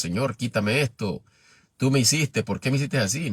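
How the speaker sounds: complaining to God. Retold or imitated. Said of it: "Y decimos".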